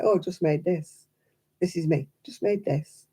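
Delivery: modest mumble. Retold or imitated. Modest way she shows crafts.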